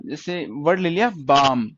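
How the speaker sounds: "बाम" said slowly with a long "आ"; slow down and hold the "आ" in "बाम"; slow demo word. Shown as a demonstration. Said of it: "उससे अगला हमारा".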